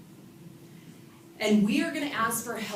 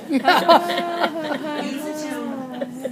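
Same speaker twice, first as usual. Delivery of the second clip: mock sincere; 7 semitones higher, 10 dB louder, slower than usual. Shown as a demonstration. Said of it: "Oh, we're taping this".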